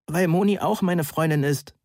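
a touch of a strained croak. A narrator's reading. Tearful visitor justifying himself to Heike, croaking slightly. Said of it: "krächzte ich".

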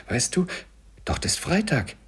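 high, loud, climbing hallooing; excited cheering. A narrator's reading. Scrooge watches Friday run for his life, hallooing excitedly. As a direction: cheer the runner on, rising to a holler.

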